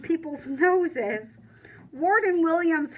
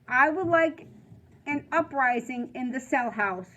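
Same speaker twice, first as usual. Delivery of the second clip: cold angry warden. Acted. Warden turning cold on the children, hard and angry. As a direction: bite off each word.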